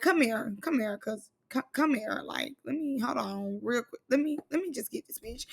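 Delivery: quiet, calm threat; hushed, deadly calm; soft menacing. Retold or imitated. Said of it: "Ivory was like".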